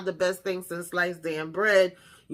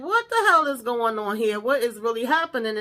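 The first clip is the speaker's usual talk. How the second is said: tag bewildered reaction; 3 semitones higher than usual. Retold or imitated. Retells own bewildered reaction.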